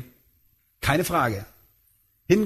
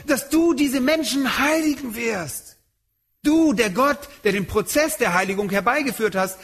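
raised, pleading prayer voice of Paul; fervent prayer; 7 semitones higher than usual. Retold or imitated. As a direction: beseech God as Paul in prayer. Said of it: "Er bittet ihn".

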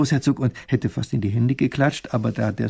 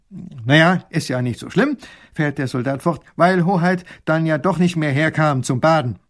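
put-on dutiful young soldier, higher and louder; 4 semitones higher, 5 dB louder than usual. Soldier reports proudly to the princess, eager and dutiful. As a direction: report eagerly like a loyal guard.

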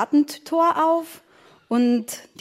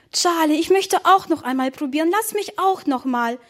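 put-on high-pitched childish pleading; begging; 5 semitones higher than usual. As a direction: beg for another turn. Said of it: "bettelte Emma". (bettelnd, mit hoher Kinderstimme)

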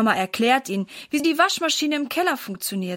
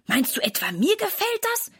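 sullen; 9 semitones higher than usual. A narrator's reading. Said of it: "antwortet Sarah missmutig".

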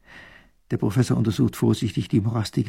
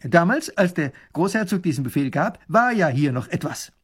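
raised, amiable soldier's voice; friendlier soldier; 5 semitones higher, 4 dB louder than usual. A narrator's reading. Soldier explaining to the princess, friendly. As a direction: explain it kindly to royalty. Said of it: "wird seine Stimme gleich viel freundlicher".

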